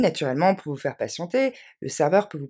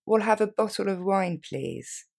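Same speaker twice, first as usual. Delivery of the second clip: quicker, natural pace; faster; 5 semitones higher, slower than usual. Shown as a demonstration. Teacher modelling the order for learners, at normal speed. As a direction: say it briskly like a real diner. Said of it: "Un peu plus rapidement".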